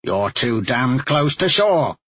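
put-on slow, gruff old grumble; gruff huffing badger. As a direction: growl it out slowly, annoyed. Badger complains.

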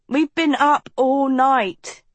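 slow, yawned-out words; yawning. A narrator's reading. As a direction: stretch it through a yawn. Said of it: "he yawned".

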